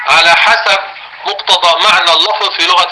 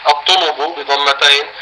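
الطنب said slowly as at-tunub, each damma clear; slow dictation; slower than usual. Shown as a demonstration.

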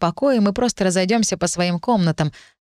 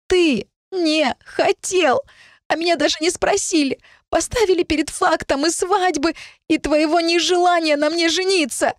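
tearful outburst; 10 semitones higher than usual. A narrator's reading. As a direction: pour out the hurt through tears. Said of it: "отрывисто выпалила".

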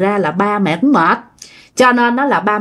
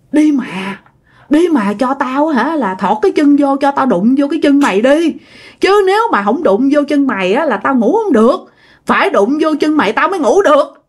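pitiful pleading; 5 semitones higher than usual. Retold or imitated. Uncle begging to touch his friend's feet, pleading pitifully. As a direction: imitate a pitiful beg, pitch lifted. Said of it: "ổng năn nỉ mà theo kiểu tội dữ lắm".

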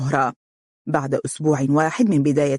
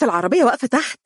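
higher, eager, rising on العربية; happy, excited; 8 semitones higher, much faster than usual. A narrator's reading. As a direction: urge him downstairs with delight. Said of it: "وهي تقول بسعادة". (بحماس وفرح، العربية بنبرة صاعدة)

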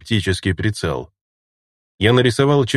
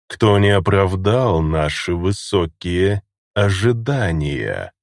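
put-on slow, creaky old pontiff voice; slower than usual. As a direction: creak each word out slowly. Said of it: "скрипучим голосом заговорил понтифик".

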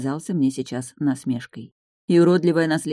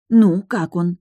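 eager; 3 semitones higher, 6 dB louder, much slower than usual. Acted. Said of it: "с волнением спросила Анна".

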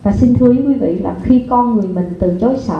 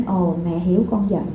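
soft, gentle mother's comfort; tender reassurance; 2 semitones lower, 5 dB quieter than usual. Shown as a demonstration. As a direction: soothe the upset child. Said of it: "Quý vị hiểu ý không ạ?".

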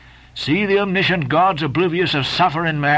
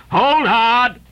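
sharp cry; 8 semitones higher, 4 dB louder than usual. Acted. Reelman cries out as line strains.

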